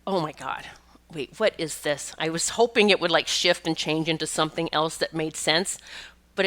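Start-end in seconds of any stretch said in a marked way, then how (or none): 0.1-2.1 hushed, slowed disbelief; whispered to herself, baffled by the vision; stunned whisper. Retold or imitated. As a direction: breathe it out like you can't believe what you're seeing. Startled by a vision in reading.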